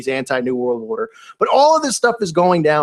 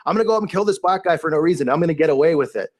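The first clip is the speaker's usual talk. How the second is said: mock smug killer cop. Mocking cop voiced as a killer.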